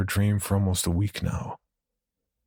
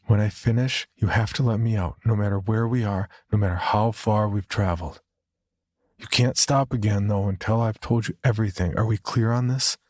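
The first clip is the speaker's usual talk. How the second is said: higher-pitched character voice, insistent; woman hitchhiker setting terms; 3 semitones higher than usual. Acted. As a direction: lay down conditions in a lightly raised voice. Narrator voices woman setting rules.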